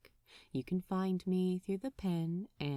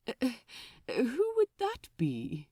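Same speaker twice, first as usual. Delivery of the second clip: Aziraphale voice; 3 semitones higher than usual. Acted. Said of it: "asked the angel".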